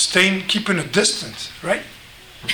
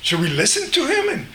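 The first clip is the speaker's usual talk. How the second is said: nervous servants. Acted. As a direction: fret like a scared servant. Frightened servants unsure what to do.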